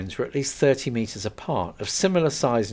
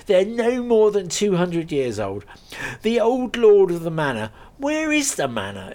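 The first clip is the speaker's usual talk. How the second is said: a friendly landowner laughing off his joke; lightly voiced farmer; 4 semitones higher, 4 dB louder than usual. Gunman tells local legend.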